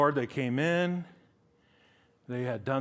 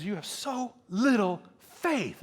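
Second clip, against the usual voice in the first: raised, slow, drawn-out rebuke; rebuke over storm; 5 semitones higher, slower than usual. Acted. Jesus rebukes disciples while storm rages, raised voice. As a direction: stretch the words out, calling over a storm.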